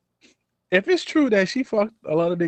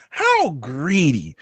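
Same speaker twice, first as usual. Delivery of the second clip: slow, put-on British reproach; mock British accent; much slower than usual. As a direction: draw it out in a playful British accent. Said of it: "in my British accent".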